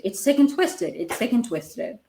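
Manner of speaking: mildly heated, repeated condemnation; worked up. Real, not acted. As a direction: get a bit carried away with indignation. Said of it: "I need to calm down".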